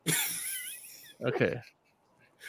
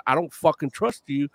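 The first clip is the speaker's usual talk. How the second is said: lightly imitated Bronx accent; a hint of a tough Bronx accent; Rat Trap Bronx accent; 3 semitones lower, 5 dB quieter than usual. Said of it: "in the Bronx accent".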